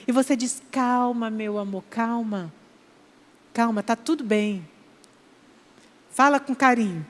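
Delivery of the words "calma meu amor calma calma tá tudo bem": soft, quiet soothing; calm and tender. Shown as a demonstration. Husband calming upset wife, soft tender whisper-like. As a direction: hush her gently, much softer. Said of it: "você toca com amor e carinho".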